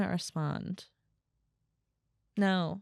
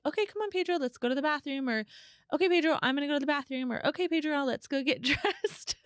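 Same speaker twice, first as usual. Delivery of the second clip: put-on baby-talk to dog; 7 semitones higher than usual.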